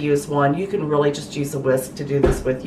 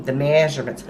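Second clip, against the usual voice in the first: Southern accent; 2 semitones lower than usual. Real, not acted. Host slips while giving the recipe measurements, Southern accent. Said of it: "in my southern voice".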